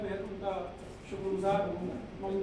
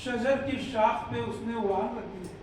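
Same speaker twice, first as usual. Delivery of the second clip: mushaira couplet recital, lightly raised; ghazal recitation; 2 semitones higher, 6 dB louder than usual. Acted. (मुशायरे में शेर पढ़ने का अंदाज़)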